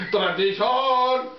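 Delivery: drawn-out mock French accent; slow, put-on French pronunciation. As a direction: stretch "Tradition" slowly in mock French. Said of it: "is we talking French now?".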